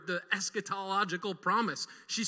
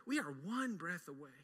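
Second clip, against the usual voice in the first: even softer, near a hush; hushed echo; 3 semitones lower, 9 dB quieter than usual. Acted. Preacher repeating the warning, softer still. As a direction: let the words hang, softly. Repeated line dropped soft.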